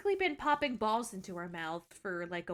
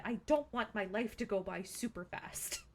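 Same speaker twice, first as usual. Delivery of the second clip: whispering; 3 dB quieter than usual. Real, not acted. Hushed aside about her life.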